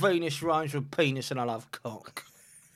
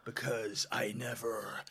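slow breathy whisper under the breath; whispered aside; 3 semitones lower, 8 dB quieter, much slower than usual. Real, not acted. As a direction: mutter it like a secret joke. Dirty joke muttered aside.

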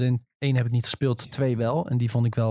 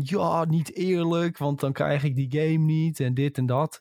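mock whiny complaint; 3 semitones higher, slower than usual. Mocking whiny Twitter fans.

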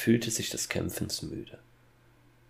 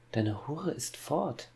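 coldly drawn-out retort, slightly raised voice; slow, cold answer to a father; 7 semitones higher, 4 dB quieter, slower than usual. A narrator's reading. Son answering his father about the missing wife, cold. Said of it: "erwiderte Hänsel kalt".

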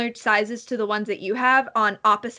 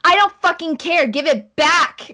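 high, loud outburst, dragging out the last words; angry shouting; 7 semitones higher, 6 dB louder than usual. Acted. Girl screaming at her sister for the book, angry shout. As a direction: yell it like a furious sibling mid-fight. Game master voices quarrelling sisters.

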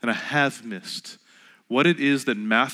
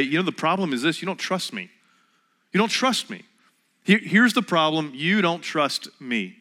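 mock accusing partner; 4 semitones higher than usual. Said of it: "they look at you and say".

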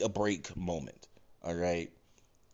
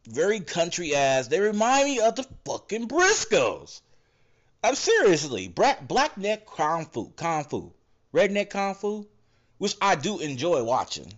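energetic redneck twang, pitched up; redneck accent; 6 semitones higher, 4 dB louder than usual. Real, not acted. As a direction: slip into a redneck voice as you get worked up. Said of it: "why in the fuck I sound like a doc-, goddamn redneck".

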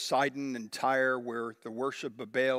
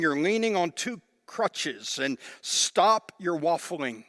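Elijah scolding; 2 semitones higher, 5 dB louder than usual. Acted. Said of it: "It's like he is saying".

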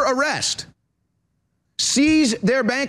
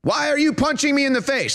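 mock victim's protest; 5 semitones higher than usual. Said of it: "and saying".

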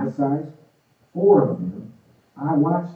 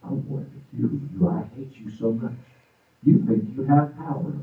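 demon voice. Retold or imitated. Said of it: "male voices".

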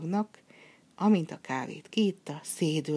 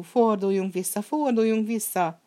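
higher, louder, frantic begging; frightened pleading; 5 semitones higher, 6 dB louder than usual. Acted. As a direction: plead to turn back, growing desperate. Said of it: "nyöszörgött a fiú".

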